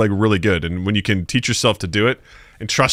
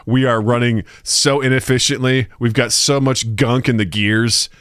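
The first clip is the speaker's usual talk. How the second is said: pleading body voice; slower than usual. Retold or imitated. Voicing his dad's body.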